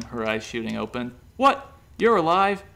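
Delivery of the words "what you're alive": very high, loud startled cry; shrieked surprise; shocked exclamation. A narrator's reading. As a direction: jump in shock. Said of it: "he exclaimed".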